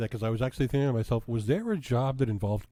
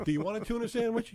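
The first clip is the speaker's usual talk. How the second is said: high, fast mock question; squeaky fast sandwich offer; 11 semitones higher, faster than usual. Mock villain actor dialogue.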